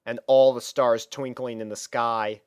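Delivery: ordinary delivery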